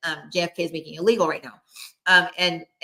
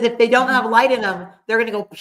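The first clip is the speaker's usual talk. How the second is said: spirit voice; 4 semitones higher, 6 dB louder than usual. Retold or imitated. Spirit guide quoted.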